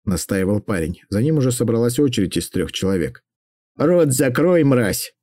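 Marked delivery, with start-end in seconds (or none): 3.8-5.1 sharp, clipped command with contempt; crisp and loud. Acted. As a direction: shut him up firmly. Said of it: "чётко и громко произнесла Алекс". (чётко и громко, с презрением)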